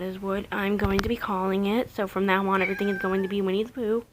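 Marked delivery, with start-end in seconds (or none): none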